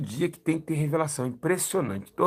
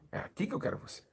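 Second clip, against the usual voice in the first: whispered, voiceless and far softer; 8 semitones higher, 10 dB quieter than usual. Retold or imitated. The Holy Spirit whispering to the young preacher. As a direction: breathe it like a secret calling.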